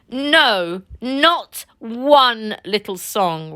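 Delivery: slow, firm refusal; firmly. Acted. The Rat refuses Toad's plea, firmly. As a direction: shut it down kindly but for good. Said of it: "replied the rat firmly".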